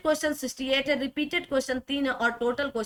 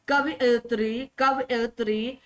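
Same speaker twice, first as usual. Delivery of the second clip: slow syllables; slower than usual. Shown as a demonstration. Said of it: "शुद्ध वाक्य कवयित्री होता है".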